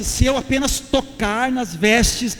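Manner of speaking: loud, drawn-out words of hope; determined declaration. Acted. Preacher voicing the sick woman reaching for the robe, loud resolve. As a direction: build to a forceful, hopeful declaration.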